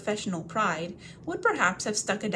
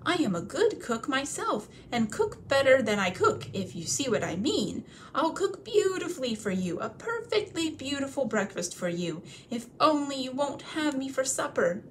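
much higher, begging voice; pleading hobbit; 6 semitones higher than usual. Acted. Bilbo begging the trolls not to cook him, high and pleading. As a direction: beg for your life.

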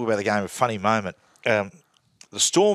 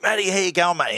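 hearty greeting; 8 semitones higher than usual. Retold or imitated. Welfare officer greeting him warmly.

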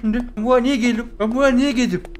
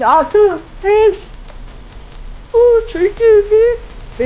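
tense countdown; 10 semitones higher, much slower than usual. Real, not acted. Countdown running out.

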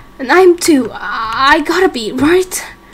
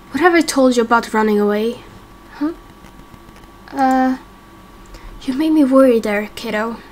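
lightly voiced, gently scolding father; a hint of a worried dad; mild fatherly scold. Plays the dad figure.

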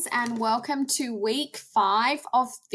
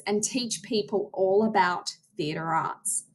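presentation voice. Shown as a demonstration. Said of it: "So I might say".

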